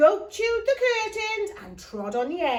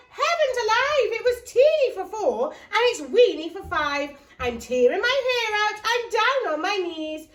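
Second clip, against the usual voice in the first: higher, louder exasperation with a laugh; frantic cry; 5 semitones higher, 4 dB louder than usual. Acted. Old lady crying out in the crowded house, frantic. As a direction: at your wits' end. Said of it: "The little old lady cried".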